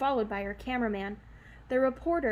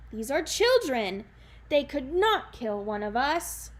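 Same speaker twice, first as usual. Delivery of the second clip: giant voice; 3 semitones higher, 7 dB louder than usual. Acted. Giant speaking.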